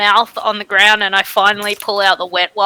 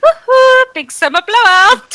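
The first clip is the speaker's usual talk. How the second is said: very high animated character voice; 13 semitones higher, 4 dB louder than usual. Quoting the guy from Frozen to explain the accent: imitating the guy from Frozen. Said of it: "I'm thinking of the guy from Frozen".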